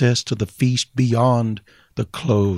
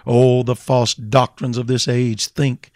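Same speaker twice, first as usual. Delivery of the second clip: full-force preaching; 3 semitones higher than usual. Acted. Preacher proclaiming the living Father to sinners, full force. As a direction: preach it hard, lifting toward the peak.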